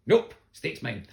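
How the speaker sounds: high, loud, slow smug dog voice; cheeky dog voice. Retold or imitated. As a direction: voice the dog stealing the steak. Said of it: "Coda's just like".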